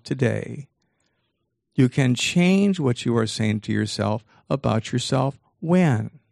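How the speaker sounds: slow, measured delivery of a key point; slow and deliberate so nobody misses it; deliberately slow. Shown as a demonstration. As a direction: spell it out slowly, phrase by phrase. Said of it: "I'll say this slowly so you don't miss it".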